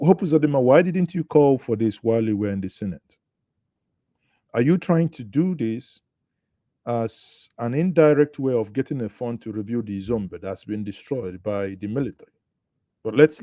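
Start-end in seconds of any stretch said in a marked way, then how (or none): 0.1-7.7 incredulous challenge. Real, not acted. Host challenges the governor directly.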